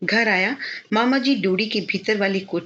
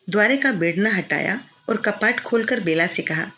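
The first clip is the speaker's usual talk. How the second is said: ordinary delivery, nothing marked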